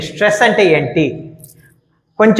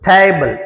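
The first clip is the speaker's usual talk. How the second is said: strong opening టే in టేబుల్, light ending; stress on first syllable; slower than usual. Shown as a demonstration. Teacher demonstrating word stress on the first syllable of టేబుల్. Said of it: "దీనికి stress ఎక్కువ ఉంది".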